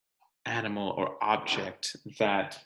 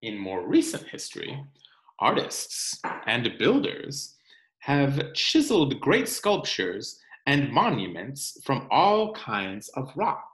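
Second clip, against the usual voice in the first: put-on reading to children. Teacher reading the rock book to her class, storytime narration. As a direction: read it aloud for the class.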